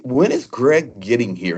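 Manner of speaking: a lightly done booming British voice; British booming accent. Retold or imitated. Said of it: "in that British booming accent".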